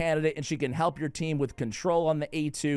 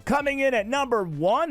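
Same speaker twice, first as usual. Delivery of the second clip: announcer voice; 8 semitones higher, 4 dB louder than usual. Pretend. Mock countdown show announcer.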